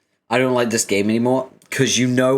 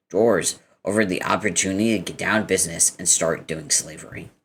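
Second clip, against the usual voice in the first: put-on American accent, lightly voiced; Karkat's American accent. British reader voicing Karkat's lines, American accent. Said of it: "do in Karkat's accent".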